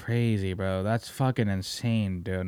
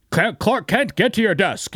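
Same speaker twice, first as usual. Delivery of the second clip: higher, louder mock boss yelling; mock boss bark; 6 semitones higher, 4 dB louder than usual. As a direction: play the gruff editor calling Clark over.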